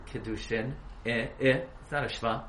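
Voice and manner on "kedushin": Kedushin with a short eh after the K; wrong pronunciation. Shown as a demonstration. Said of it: "You can't say".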